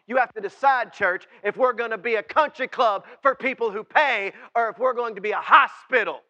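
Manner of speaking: loud, high-pitched pulpit shout; impassioned sermon cry, ringing out loud; full-force preaching. Acted. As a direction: preach it at the top of your voice.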